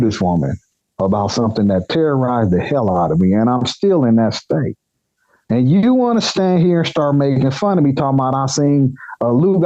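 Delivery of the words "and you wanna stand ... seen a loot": higher-pitched, indignant retort; mildly acted outrage at being mocked. Employee to boss who seems to mock him, indignant.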